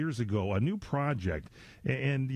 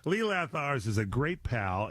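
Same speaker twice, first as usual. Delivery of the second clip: slow, deliberate "Lee Lathowers" with each syllable spelled out; said carefully. Shown as a demonstration. Host introducing his guest by name, said slowly and carefully. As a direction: take your time over the name Lee Lathowers. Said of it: "I'm saying it carefully".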